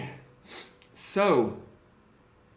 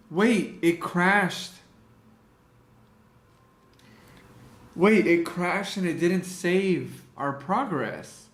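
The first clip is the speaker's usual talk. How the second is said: shocked; 4 semitones higher, slower than usual. Real, not acted. Photoshop crash panic.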